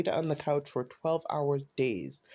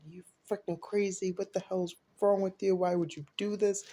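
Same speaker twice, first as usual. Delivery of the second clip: retold yelling; 6 semitones higher than usual. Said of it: "she's yelling at her".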